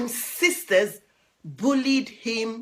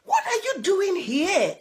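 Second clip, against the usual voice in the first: little duckling; 9 semitones higher than usual. Acted. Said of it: "asked Tufty".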